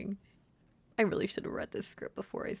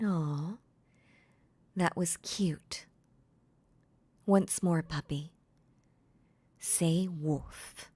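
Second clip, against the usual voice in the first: doting mistress; 4 dB louder, much slower than usual. Acted. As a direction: coo over a pet. Mistress praising her puppy.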